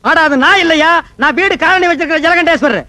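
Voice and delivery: exasperated. Acted. Quarrel over mistaken phone call.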